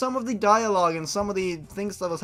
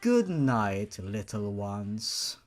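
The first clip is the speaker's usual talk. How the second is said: gentle aunt; 4 semitones lower than usual. Acted. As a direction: settle the children to sleep gently. Aunt tucking children into bed.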